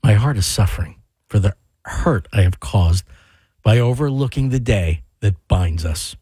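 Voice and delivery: creepy voice. Pretend. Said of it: "it's your delivery".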